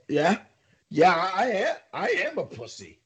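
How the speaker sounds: high mocking whiny voice, pitched well up. Podcaster mimics PK chirping Zadorov, high mocking whine. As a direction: lampoon the opponent as a high mock whimper. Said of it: "all you hear is P K just go".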